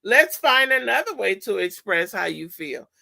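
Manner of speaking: calm, neutral, not reactive; calmly. Shown as a demonstration. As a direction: set the limit calmly and kindly. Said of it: "say calmly".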